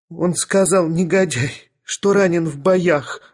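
high, wailing complaint; sobbing. A narrator's reading. Young lady accuses the scoundrel of lying, sobbing. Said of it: "рыдала барышня".

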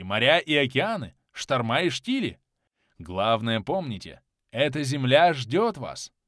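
editor's upbeat promotional address; rousing proclamation. A narrator's reading. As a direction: declaim it like an invitation to adventure. Reads editor's rousing newspaper appeal. (торжественно, призывно)

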